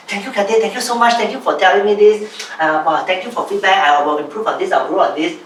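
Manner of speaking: mock-eager thanks, tumbling out phrase after phrase; imitated eager gratitude. Grateful mentee to mentor receiving feedback, eagerly thankful. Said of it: "what was my attitude at the time".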